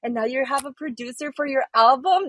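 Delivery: high, thrilled fan; excited disbelief. Real, not acted. Fan congratulating Deborah on her album, thrilled. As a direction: gush with delighted surprise.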